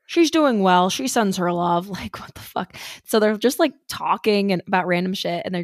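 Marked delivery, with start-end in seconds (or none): 0.1-1.9 mock Lionel. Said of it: "he's like".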